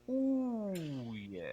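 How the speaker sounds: high curled-tongue ooh sliding down; high ooh, fry yeah. Shown as a demonstration. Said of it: "tongue curled back and say".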